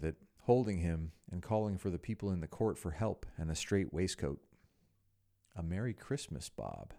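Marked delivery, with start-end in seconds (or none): 5.5-6.9 soft, low and earnest; mean every word of it. Acted. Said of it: "with an earnestness that could not be mistaken".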